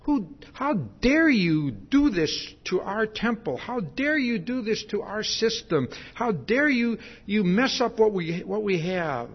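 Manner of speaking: mock outrage from arrogant, challenging temple men; indignant. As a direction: play the huffy, offended temple leaders. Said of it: "angry, arrogant, challenging, huffy-puffy kind of guys".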